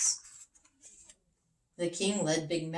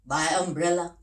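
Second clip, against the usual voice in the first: Big Macs answering; 5 dB louder than usual. Acted. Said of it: "Big Macs said".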